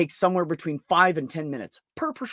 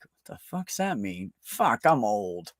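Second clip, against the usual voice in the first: slow, low, deadpan confusion; confused by young people's slang, slow and deadpan; bemused inner voice; 5 semitones lower, slower than usual. Retold or imitated. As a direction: mutter it as a dawning realization. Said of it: "and I'm like".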